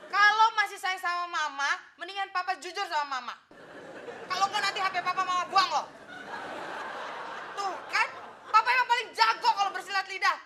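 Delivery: mild, exasperated wifely scolding; omelan cemburu. Acted. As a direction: nag him with emphatic bursts. Anak menirukan mama cemburu menegur papa. (omelan istri yang cemburu dan kesal)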